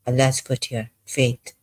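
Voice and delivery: normal talking voice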